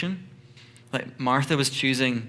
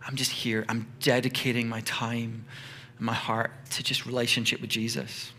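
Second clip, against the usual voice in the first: softer, settled calm; unstressed devotion; 3 semitones lower, 5 dB quieter than usual. Acted. Mary simply being with Jesus, calm and unstressed. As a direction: say it quietly, with nothing to prove. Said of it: "not stressed at all".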